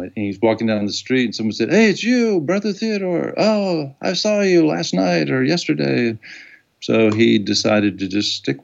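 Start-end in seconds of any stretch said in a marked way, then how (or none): 1.7-6.2 high-pitched, delighted passer-by imitation; excited recognition. Stranger spotting a TV guest on the street, excited. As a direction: play a starstruck stranger, pitched way up.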